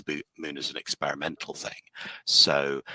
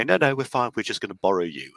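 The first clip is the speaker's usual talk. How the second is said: higher and louder, breezily dismissive; smug invaders; 5 semitones higher, 5 dB louder than usual. Retold or imitated. Alien invaders dismissing the Alphans, higher, smug and breezy. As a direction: brush them off with cheery arrogance. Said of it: "They go".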